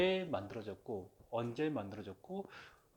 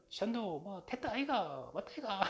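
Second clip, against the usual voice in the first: imitating a Daegu speaker, pitched up; Gyeongsang dialect; 9 semitones higher than usual. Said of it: "경상도, 대구". (높고 느린 경상도 사투리 흉내)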